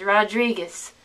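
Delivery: Rodriguez as "rah-DREE-guhz"; anglicized. Shown as a demonstration. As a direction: say Rodriguez the English way. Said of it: "anglicized them".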